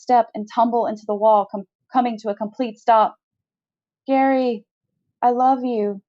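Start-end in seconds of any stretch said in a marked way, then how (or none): 4.1-6.0 a heartfelt, yearning confession; mean every word of it; sincere. A narrator's reading. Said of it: "Never have more sincere words".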